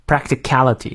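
"practicality" given full stress on "cal". Shown as a demonstration. Teacher marking sentence stress, "practicality" stressed. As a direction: hit "practicality" as the last key word. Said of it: "最后practicality要重读".

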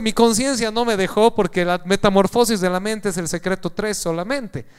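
usual speaking voice

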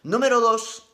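a high, loud announcement of the ranking; a loud, high, showman countdown; excited announcing. Real, not acted. Counting down his favourite accents.

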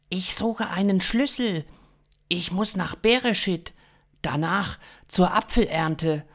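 high-pitched alien voice; alien stranger. Acted. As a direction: state the errand in a high, odd voice. Alien explains his errand.

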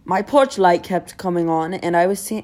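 reading aloud in mock British; British accent. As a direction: put on a British accent to read a post. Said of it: "read everything on Instagram in a British accent".

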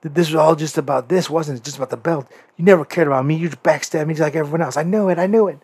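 hurt accusation. Retold or imitated. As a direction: play the betrayed friend, voice climbing. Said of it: "And M J F goes".

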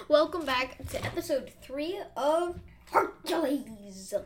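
Hercules said slowly as Huncules. Pretend. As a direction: stretch out Huncules with a laugh. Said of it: "Why do you say it like that?".

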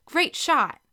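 high, loud praise after a goal; cheering. A narrator's reading. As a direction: cheer a teammate's success. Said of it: "Carrie cheered".

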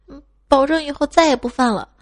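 put-on snivelling kid. Beaten nephew swears to behave, lightly snivelling child voice. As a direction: promise like a scolded little boy. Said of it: "这熊孩子流着鼻涕".

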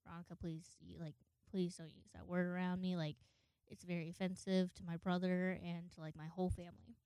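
soft, controlled polite request; keeping calm. Retold or imitated. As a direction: hold your composure and ask gently. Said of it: "had to keep my calm".

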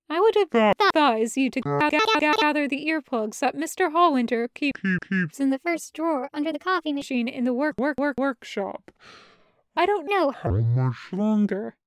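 stuttering, repeating syllables like a broken computer; glitching AI voice. Acted. Jarvis warns Taco, voice glitching and stuttering. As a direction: skip and repeat like corrupted audio. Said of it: "his voice glitching out".

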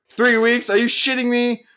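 incredulous outrage. Real, not acted. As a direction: fire off questions in disbelief. Incredulous rant at the agency.

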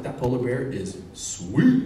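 slow, drawn-out amazement, rising on "sweet"; awed delight. Retold or imitated. Telling the crowd about the polar bear, awed and drawn out. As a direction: stretch it out in mock awe.

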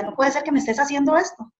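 mild retold outcry to God, voice lifted in pitch; retold desperate cry. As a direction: plead upward in disbelief, without shouting. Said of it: "yo le gritaba al Señor".

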